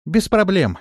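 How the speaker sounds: high, loud reassurance down the well; calling down. A narrator's reading. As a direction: call down cheerfully.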